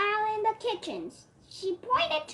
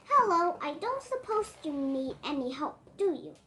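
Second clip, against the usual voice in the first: hopeful. Acted. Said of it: "she asked hopefully".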